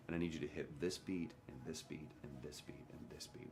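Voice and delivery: repetitive, mechanical run of instructions that trails down; mechanical listing. Retold or imitated. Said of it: "makes it sound so mechanical".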